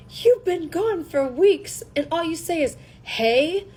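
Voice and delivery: mock angry Hermione. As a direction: fire it back, offended and exasperated. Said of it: "she's just so mad".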